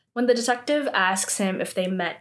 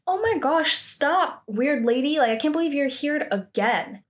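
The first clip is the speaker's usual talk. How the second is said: higher-pitched mock exasperation; annoyed teen; 5 semitones higher than usual. Girl brushing off a weird lady, mock annoyed. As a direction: act out an irritated brush-off.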